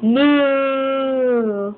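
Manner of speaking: drawn-out mock moo; cow moo. Shown as a demonstration. Parent teaching baby the cow sound, long moo. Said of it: "What's a cow say?".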